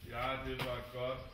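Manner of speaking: slow, loud, stern praise; praising the dogs like a drill sergeant; too-hard praise. Real, not acted. Wife says his praise for the dogs is too hard, slow and loud. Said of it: "Du har for hård en stemme".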